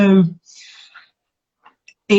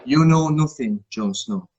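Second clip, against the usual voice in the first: put-on Yorkshire accent; 2 semitones lower than usual. Echoing Ygritte's line to show Yorkshire accent. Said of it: "It's also Yorkshire".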